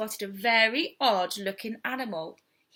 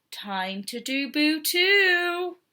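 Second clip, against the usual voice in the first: slow scheming; 5 semitones higher, much slower than usual. Acted. Cub plots slowly.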